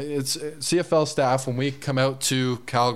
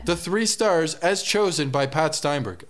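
arena announcer voice; 4 semitones higher than usual. Retold or imitated. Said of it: "they say after the game".

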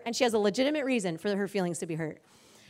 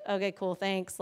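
low, quiet, underwhelmed reply; unimpressed thanks; 4 semitones lower, 6 dB quieter than usual. Retold or imitated. Wife receiving roses that disappoint her, unimpressed. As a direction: imitate a wife politely not stoked. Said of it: "was still not stoked".

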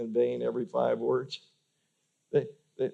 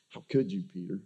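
imagined hurt Jesus; 3 semitones lower, 4 dB quieter than usual. Retold or imitated. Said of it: "with just disdain".

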